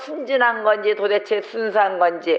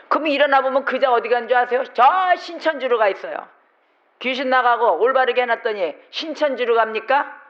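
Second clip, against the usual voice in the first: ordinary talk, nothing marked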